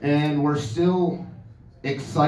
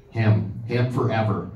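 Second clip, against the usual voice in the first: swooning wife; 3 semitones lower than usual. Retold or imitated. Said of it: "what woman hears this voice and goes".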